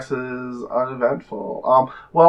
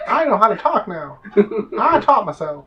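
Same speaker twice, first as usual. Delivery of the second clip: high squeaky rat, laughing through it; chirpy little rat friend; 13 semitones higher than usual. Acted. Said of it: "This is my rat voice".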